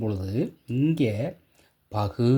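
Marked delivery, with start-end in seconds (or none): 1.9-2.3 பகு with its final கு sounded as a full, clear u. Shown as a demonstration. Teacher showing students how பகு is pronounced, full final u. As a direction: give பகு a fully voiced u ending. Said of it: "அப்படின்னு உச்சரிப்பீங்க".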